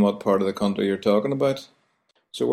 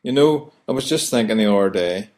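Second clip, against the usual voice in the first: Belfast phrase; 4 dB louder than usual. Shown as a demonstration. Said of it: "another phrase we use a lot".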